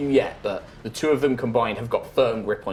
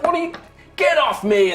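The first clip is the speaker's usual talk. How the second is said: startled halfling; 13 semitones higher, 5 dB louder than usual. Acted.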